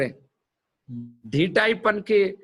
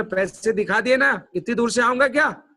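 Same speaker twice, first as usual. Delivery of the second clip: cocky retort; 4 semitones higher than usual. Retold or imitated. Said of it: "थोड़ा जोर से बोला अपन ने, स्टाइल में".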